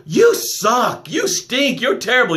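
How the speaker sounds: hammed-up sneer at the puppy; mock self-scolding. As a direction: imitate a harsh inner critic scolding. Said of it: "look at the puppy in the mirror and go".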